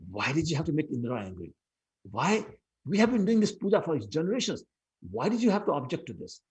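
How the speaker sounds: mother scolding Krishna for angering Indra. Acted. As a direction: scold your son, voice climbing. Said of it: "she started to chastise him".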